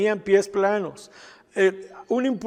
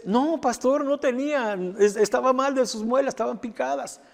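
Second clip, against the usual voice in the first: high-pitched earnest protest; retold insistent mother; 4 semitones higher than usual. Mother assures the doubting pastor, retold insistence. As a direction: imitate a mother insisting it is true.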